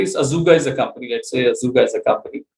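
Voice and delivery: quick, run-together company names; saying it fast. Real, not acted. Guest names a company for the host, too fast to follow. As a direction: rattle off the company name at speed. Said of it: "you're saying it fast".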